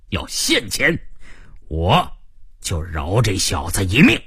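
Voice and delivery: lightly voiced boss making threats; domineering gang boss. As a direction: lay down terms like a crime boss. (略带威胁的老大口吻)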